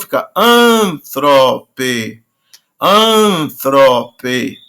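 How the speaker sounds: "antrope" slowly, stress on the first syllable; slow stress demo. Shown as a demonstration. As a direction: model "antrope" slowly for the class. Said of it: "como é breve de novo". ("antrope" devagar, acento no início)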